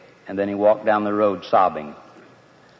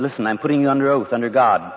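pressing interrogation; 4 semitones higher than usual. Acted. High priest interrogating the accused.

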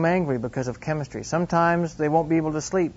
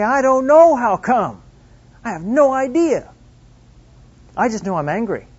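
acted teenage exasperation, pitched up; exasperated rebellious teen; 7 semitones higher, 6 dB louder than usual. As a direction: throw it back like a baffled, angry kid. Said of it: "they become so rebellious".

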